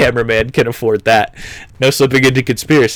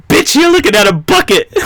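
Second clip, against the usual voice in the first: exasperated laughing outburst; 9 semitones higher, 3 dB louder than usual. Real, not acted. Mocking art snobs.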